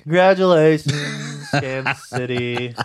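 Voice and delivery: slow, drawn-out congratulations; reluctant congratulations. Real, not acted. Loser prodded to congratulate Kansas City, reluctant and drawn out. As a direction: drag it out as if made to say it.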